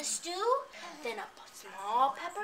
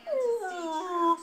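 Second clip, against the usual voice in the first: grovelling oh; 5 semitones higher, 5 dB louder than usual. Acted. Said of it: "he grovels".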